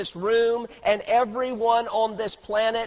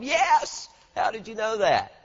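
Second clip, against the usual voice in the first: amazed client. Retold or imitated. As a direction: play the gullible client stunned by the guess.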